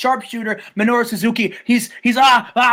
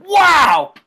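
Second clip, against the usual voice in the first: imitated crowd wow; 8 semitones higher, 7 dB louder than usual. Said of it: "Everyone's like".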